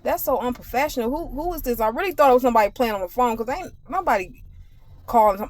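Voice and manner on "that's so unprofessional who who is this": indignant. Retold or imitated. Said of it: "I'm like".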